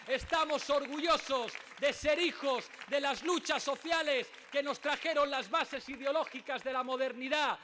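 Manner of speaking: normal talking voice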